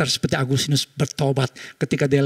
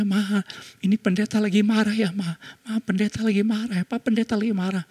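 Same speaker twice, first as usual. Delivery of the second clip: put-on scared child; 6 semitones higher, 3 dB quieter than usual. Scared child whispering to mother.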